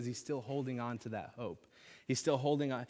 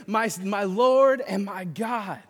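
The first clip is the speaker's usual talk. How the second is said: much higher, loud, slow shout; yelling; 7 semitones higher, 11 dB louder, slower than usual. Retold or imitated. Thomas shouting to risen Jesus, loud and high. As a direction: cry out with everything in you. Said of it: "so he's yelling this".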